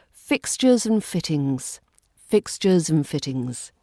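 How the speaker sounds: "and" shrunk to a light n, fixtures n fittings; "fixtures and fittings" with "and" reduced to n. Shown as a demonstration. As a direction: link "and" as a quick n. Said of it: "We reduce this and to the n sound".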